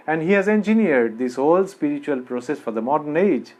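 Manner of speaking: very slow, weighed English line; slow emphatic statement. Acted. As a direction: lay out each word deliberately.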